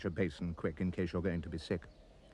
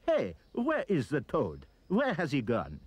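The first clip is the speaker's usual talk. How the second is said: puzzled mob cry; 5 semitones higher, 3 dB louder than usual. Acted.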